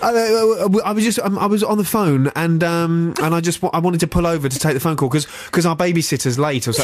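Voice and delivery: mildly panicked babble, acted out; mock fearful. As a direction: imitate a flustered made-up alibi. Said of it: "complete fear makes you, uh, make up".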